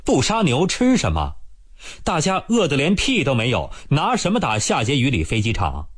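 声音抬高，带着几分不满; 略微恼火地质问; 不高兴地反问. Acted. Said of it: "吴铁锤有点不高兴". (吴铁锤不服气地反驳杨根思，语调升高)

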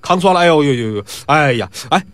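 moaning over his aching back; hammed-up groaning. Pi Wu moans at Jin about his back, hammed-up. Drunk Pi Wu fakes back pain.

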